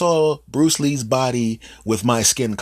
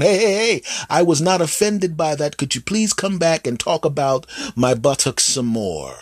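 eager plea; 7 semitones higher than usual. Retold or imitated. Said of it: "They're going".

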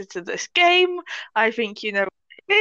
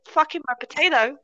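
gasping laugh; 7 semitones higher than usual. Real, not acted. Cat interrupts, laughing.

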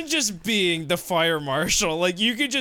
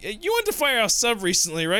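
mock fire marshal voice; 4 semitones higher, faster than usual. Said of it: "the fire marshal's like".

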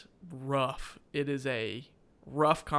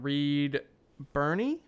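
unsure question; 3 dB louder, slower than usual. Real, not acted. Unsure of actor's name.

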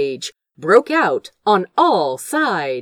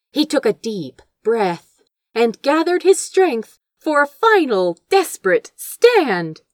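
ordinary delivery, nothing marked

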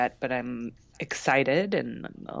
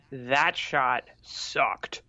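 whispered; 2 semitones lower, much slower than usual. Real, not acted. Recalling painful shot.

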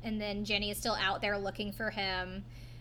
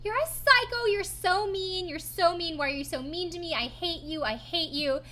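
mock breakdown; 7 semitones higher than usual. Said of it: "having a breakdown".

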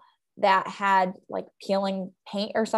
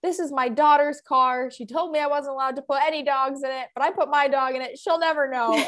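lightly voiced conspiratorial stranger; 5 semitones higher than usual. Woman confiding mischief.

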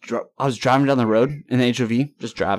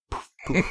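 imitated poof; 3 dB quieter than usual. Imitates feathers after the hit.

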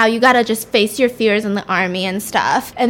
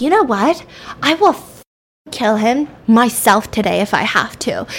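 mad. Retold or imitated. Darby vowing revenge over the girl's hand, mock anger. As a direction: act out a moderately angry resolve. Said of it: "Darby's so mad".

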